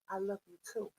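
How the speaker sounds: soft, easy reply; low, offhand tenderness; natural affection. Retold or imitated. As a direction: say it quietly and simply, as everyday affection. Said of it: "Naturally. ... he says it naturally".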